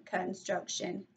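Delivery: "construction" slow, in three separate parts; syllable by syllable. Shown as a demonstration. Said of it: "three syllables".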